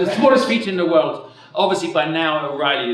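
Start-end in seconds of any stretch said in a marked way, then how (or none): 0.0-1.3 higher-pitched put-on Irish accent; lightly hammed-up Irish accent. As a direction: redo the line as an Irishman. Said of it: "Sorry, Irish accent".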